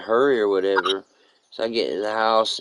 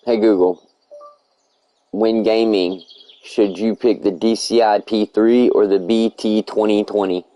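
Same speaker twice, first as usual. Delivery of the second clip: voice command; 5 dB louder than usual. Acted. Comic repeated loud voice commands.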